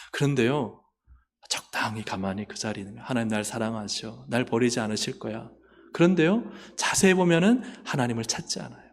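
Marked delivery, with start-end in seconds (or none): 3.1-5.5 soft, lazy murmur of false comfort; complacent self-assurance. Acted. Passive believer reassuring himself, soft and lazy. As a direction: lull yourself quietly.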